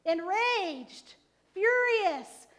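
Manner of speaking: rising, punched word. Acted. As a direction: build up to fury. Building intensity of synonyms.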